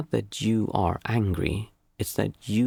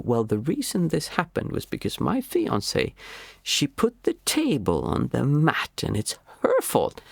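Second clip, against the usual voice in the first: mock whiny excuse, rising higher and slower; making excuses; 5 semitones higher than usual. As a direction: defend yourself like a petulant child. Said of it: "wanting to make excuses".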